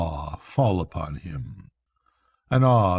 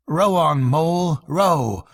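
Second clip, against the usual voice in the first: higher and louder, eager push; eager urging; 6 semitones higher, 3 dB louder than usual. Acted. Rat urges Mole to row toward the music, eager and louder. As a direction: urge your friend to row on.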